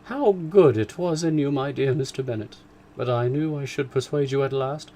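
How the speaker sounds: high, loud delighted gushing; wife thanking her husband in raptures; joyful raptures. Acted. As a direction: gush with delight. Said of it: "tumult of joy".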